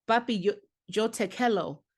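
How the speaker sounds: put-on Spanish in a plain American accent; American-accented Spanish, "quiero" coming out like "kello". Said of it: "I had no Spanish accent".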